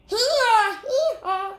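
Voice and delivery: high, loud hee-haw bray; donkey bray. Acted. Donkey braying in lion skin.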